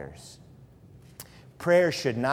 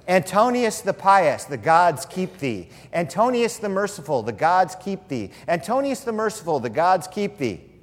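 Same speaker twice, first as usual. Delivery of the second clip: mock litany; 4 semitones higher than usual. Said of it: "Here's another one".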